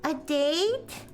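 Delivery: calm visual novel reading; story narration. Acted. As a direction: read the game text out steadily. Reads the visual novel aloud.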